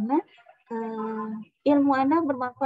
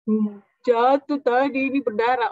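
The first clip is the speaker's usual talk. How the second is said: loud, drawn-out mock child's complaint; whimpering hurt child; 7 dB louder, slower than usual. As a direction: play a child whining over a scrape.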